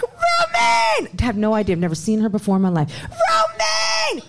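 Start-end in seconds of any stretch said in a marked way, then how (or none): 0.0-1.1 excited shout. Retold or imitated. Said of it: "she's like". 3.1-4.2 excited shout. Retold or imitated. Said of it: "she's like".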